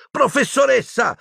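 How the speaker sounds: very high, alarmed cry; girl's cry of protest. A narrator's reading. Hermione trying to stop Umbridge, high cry. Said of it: "gridò ancora Hermione".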